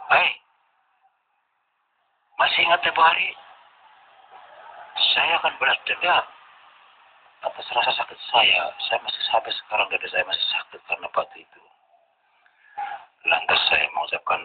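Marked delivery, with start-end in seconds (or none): 0.1-11.6 higher-pitched vengeful threat; retold angry threat. Foe threatens the narrator with revenge, angry. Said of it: "Dia mencak-mencak".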